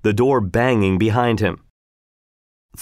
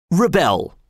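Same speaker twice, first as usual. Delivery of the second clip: higher, falling, decided; firmly; 8 semitones higher than usual. A narrator's reading. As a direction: plant the word like a decision. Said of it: "repeated Walter firmly".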